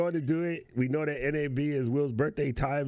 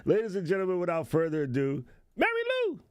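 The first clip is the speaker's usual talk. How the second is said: announcer intro; 6 semitones higher, faster than usual. Acted. Introducing cohost like host.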